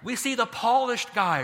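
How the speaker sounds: "polished" stressed, clearly sounding the -ed; polished said carefully. Shown as a demonstration. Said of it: "I didn't say the Polish".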